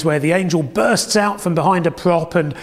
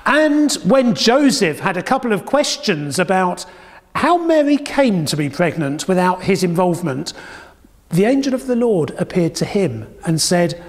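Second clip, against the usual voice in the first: usual speaking voice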